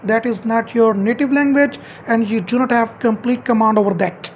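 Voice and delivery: normal talking voice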